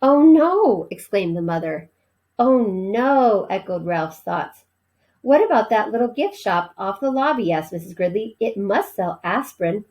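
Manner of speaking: animated read-aloud with voiced characters; story reading. A narrator's reading. Teacher reading a novel to her class, lively storytelling. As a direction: read the chapter to the class with expression.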